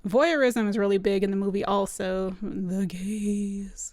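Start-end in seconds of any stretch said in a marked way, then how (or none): 2.4-3.9 breathy whispered aside. Pretend. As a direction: hush it like a secret. Ominous aside about voyeurism.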